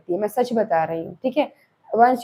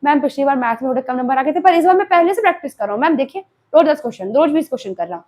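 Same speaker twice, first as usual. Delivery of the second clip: lightly acted student, quick and eager to explain; hint of a pupil hurrying through promises; student pleading with ma'am; 2 semitones higher, faster than usual. Student promising ma'am more maths practice, lightly acted pleading. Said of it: "जैसे आप लोग बताते हो ना".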